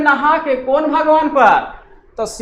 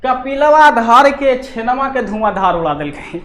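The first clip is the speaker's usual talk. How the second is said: mocking boast. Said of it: "Kapil धारा है".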